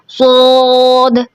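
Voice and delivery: सोद started without the hissing s; wrong, no whistle. Shown as a demonstration. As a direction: drop the opening hiss of सोद, the wrong way. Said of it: "तो ये भी गलत है".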